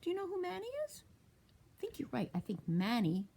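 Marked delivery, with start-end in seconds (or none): 1.8-2.3 unvoiced whispered aside. Real, not acted. Whispering to the children that they guessed right.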